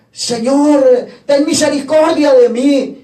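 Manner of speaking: mild retold cry for mercy; grito de súplica imitado. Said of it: "alguien gritó". (grito de súplica moderado)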